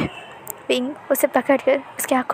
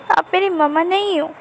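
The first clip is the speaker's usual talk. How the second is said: put-on sad child; 5 semitones higher than usual. A narrator's reading. Child objects.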